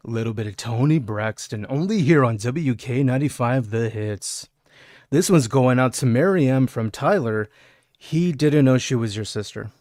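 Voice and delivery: dedication read like a radio show; mock radio DJ. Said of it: "Let me set the mood so y'all can get the idea".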